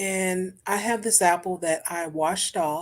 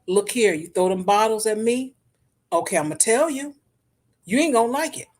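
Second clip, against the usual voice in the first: retold warning; 3 semitones higher, 5 dB louder than usual. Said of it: "after the woman told her".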